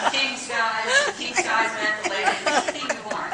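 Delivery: excited, laughing sales pitch; giddy offer. Acted. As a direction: sell it like a gleeful hostess.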